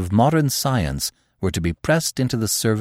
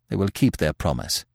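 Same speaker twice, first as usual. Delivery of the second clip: short; 3 semitones lower, 5 dB quieter than usual. Acted. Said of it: "he said shortly".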